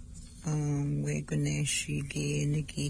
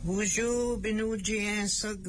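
cheerful greeting; 4 semitones higher than usual. Real, not acted. Greeting the babies.

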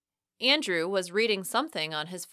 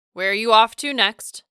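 louder, quick-fired question; accusing retort; 2 semitones higher, 8 dB louder than usual. A narrator's reading. Boyfriend questioning her next trip, accusing retort. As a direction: fire it off like an accusation. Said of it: "firing off the question a little too rapidly".

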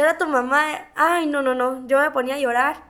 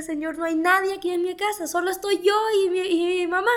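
higher-pitched, mildly desperate plea; retold tearful plea; 5 semitones higher than usual. Daughter praying alone beside her collapsed mother, retold tearful plea. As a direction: plead as if recalling tears, pitch lifted. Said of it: "yo lloraba y yo le decía".

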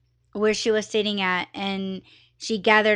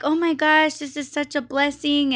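excited gushing; 5 semitones higher than usual. Retold or imitated. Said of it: "she was going on about it".

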